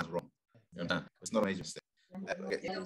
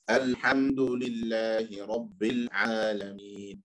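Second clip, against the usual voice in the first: slow recitation. Shown as a demonstration. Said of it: "Again, so slower".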